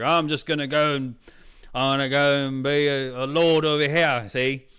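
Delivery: put-on character quote in a makeshift Australian accent; mock Australian accent. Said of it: "I don't know why, he's Australian".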